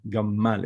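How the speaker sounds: "Gamal" with a doubled M in the middle; strong double M. Shown as a demonstration. Teacher explaining it's like double M, strong M. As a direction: press on the M of "Gamal". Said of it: "like double M".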